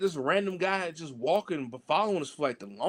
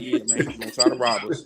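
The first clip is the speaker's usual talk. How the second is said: too calm; 7 semitones lower, 3 dB louder, faster than usual. Retold or imitated. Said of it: "you said that too calm, my boy".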